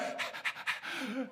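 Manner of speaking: voiceless gasping sobs, acted; imitated breathless sobbing. Preacher imitating crying after a spanking, breathless gasps. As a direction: mimic a child out of breath from crying. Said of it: "you lost your breath".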